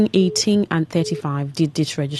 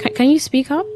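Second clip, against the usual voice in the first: raised, higher voice to a faint caller; to someone hard of hearing; 8 semitones higher than usual. Real, not acted. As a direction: call it out so they hear. Caller too faint to hear.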